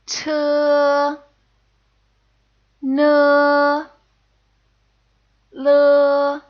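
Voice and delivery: T, N, L as the pinyin sounds; Mandarin initials. Shown as a demonstration. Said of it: "let's read all of these together".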